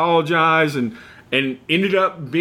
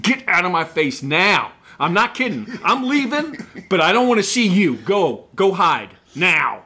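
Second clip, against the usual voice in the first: retold furious warning; 2 semitones higher than usual. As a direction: snarl it at him, barely holding back. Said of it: "Like, I was just red face".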